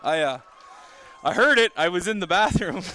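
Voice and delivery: winded from running stairs; breathless, gasping between words; out of breath. Real, not acted. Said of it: "that's why I'm out of breath here".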